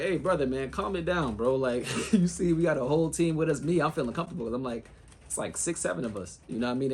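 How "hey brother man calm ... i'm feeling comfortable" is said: higher-pitched appeal to calm down; retold appeal. Player retelling how he told an aggressive man to calm down, higher-pitched appeal. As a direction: plead the case in a raised pitch, lightly acted.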